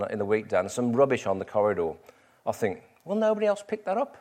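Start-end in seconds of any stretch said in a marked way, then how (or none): 3.0-4.2 much higher, put-upon self-pity; mock grumble. Pastor mimicking his own thought about corridor rubbish, higher mock grumble. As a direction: sulk like a martyr picking up rubbish.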